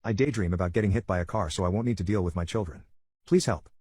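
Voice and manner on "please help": high desperate plea for help; pleading. Acted. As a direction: beg for help, pitch up. Post title pleading for help.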